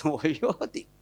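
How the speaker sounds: husband's reply. Retold or imitated. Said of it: "kata suaminya".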